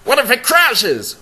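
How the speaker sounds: high, loud mock panic; panicked. A terrified groom on his first plane ride, high-pitched panic. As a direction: squeal it like a terrified flyer. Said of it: "I'm like".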